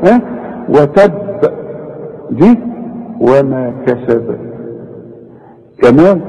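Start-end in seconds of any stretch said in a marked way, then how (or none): 0.7-1.1 وتب with the doubled ب pressed, then bounced; strong qalqalah. Shown as a demonstration. Teacher contrasting the first ba, heavy bounce on وتب. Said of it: "شوف البه الأولى عملت إيه؟". 3.2-4.4 slow وما كسب with a small bounce on ب; light qalqalah. Shown as a demonstration. Teacher contrasting the second ba, light bounce on كسب. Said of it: "شوف البه القلقلة خفيفة إزاي؟".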